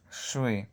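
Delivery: "shui" with hard sh and a dark, retracted i; hard sh sound. Shown as a demonstration. Teacher asks learners to listen, hard sh demonstration. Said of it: "pero pronuncio i".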